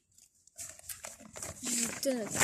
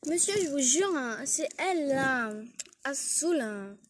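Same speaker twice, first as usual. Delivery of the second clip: whiny accusation; 2 semitones higher, 4 dB louder than usual. Acted. Élève accuse la prof au proviseur. (élève qui accuse la prof, plus aigu et plus fort)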